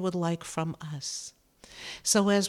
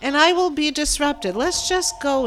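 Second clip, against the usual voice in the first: bursting into a real laugh, louder; 7 semitones higher, 8 dB louder than usual. Real, not acted. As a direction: laugh through the words at herself. Laughs at her own prediction.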